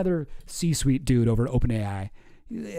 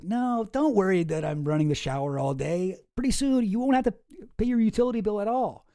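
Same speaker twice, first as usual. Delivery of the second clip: higher, mock-soothing promise; 4 semitones higher than usual. AI boss soothes roommate about bills, higher mock reassurance. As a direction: parody a smug tech boss reassuring you. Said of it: "He's like".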